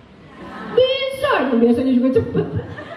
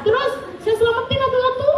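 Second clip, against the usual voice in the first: laughing; 11 semitones higher than usual. Retold or imitated. Quoting husband's ant rescue.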